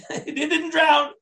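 slow, high laughing exclaim; laughing repeat. Real, not acted. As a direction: savour the twist with a laugh, drawing it out.

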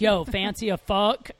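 flat American bro voice, Yo stretched out; American accent. Shown as a demonstration. Showing how the line fails in an American accent. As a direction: say it like a plain American guy. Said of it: "can't say that with an American dialect".

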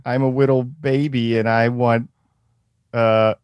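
put-on slow, lisping baby talk with W for L. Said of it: "you wanna do the little baby".

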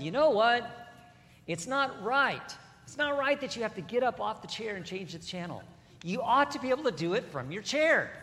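a hint of a whiny complainer; mock complainer. Preacher voices a grumbler demanding a remote.

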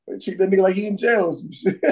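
talking through laughter; laughing while telling it. Real, not acted. Laughing at a bizarre story.

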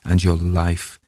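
measured, deliberate reading with drawn-out phrases; dramatic story narration. A narrator's reading. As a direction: noir tale read in an English accent. Reads the story aloud, dramatic close.

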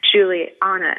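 Juliana said in a northern US accent; the host's own northern Juliana, said casually. Shown as a demonstration. Host greets guest in her northern accent. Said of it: "that's just my northern accent in there".

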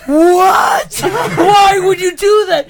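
N=Hulk/character. Retold or imitated. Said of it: "you sound like the Hulk".

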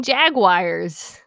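Jaguars imitated as "jag-WIRE-ers"; mock the extra syllable in Jaguars; mimicked mispronunciation. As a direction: Jaguars with an exaggerated "wire" ending. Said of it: "you keep saying Jaguars".

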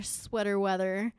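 usual speaking voice

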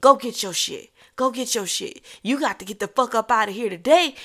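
rapid retold tirade, mildly angry; going off. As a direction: order him out in a quick rant. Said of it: "I'm just going off".

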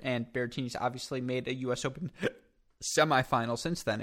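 talking through hiccups; a hiccup breaking the words. Real, not acted. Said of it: "hiccuping into the mic".

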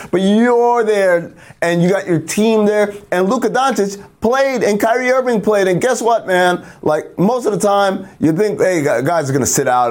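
schmoozy Hollywood agent. Acted. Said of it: "my old Hollywood character".

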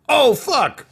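high, loud comic alarm; alarmed Toydarian majordomo. Acted. Toydarian majordomo seeing trouble, high alarmed outburst. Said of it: "the Toydarian Majordomo was like".

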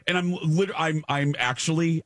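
high, stumbling anxious voice; real anxiety. Real, not acted. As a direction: trip over words as the panic returns. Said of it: "I'm feeling the anxiety".

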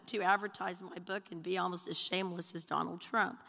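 ordinary talk, nothing marked

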